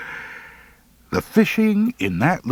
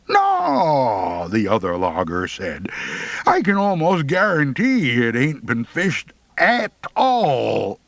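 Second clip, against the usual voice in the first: higher teasing logger voice; sly logger; 4 semitones higher than usual. Acted. The driver slyly warns the boys about fishing, teasing.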